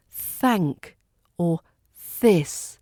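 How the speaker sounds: tongue at the teeth for THANK, THIS; crisp th. Shown as a demonstration. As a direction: THANK and THIS with clear th, spaced out. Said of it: "T H sounds crisp and clear".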